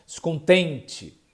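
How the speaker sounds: "Descontente" slow, "tem" strong, last "te" fading away; stress on tem. Shown as a demonstration. Teacher showing the unstressed ending, slow "Descontente". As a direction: say "Descontente" slowly, swallowing the final syllable. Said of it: "O tem tá mais forte".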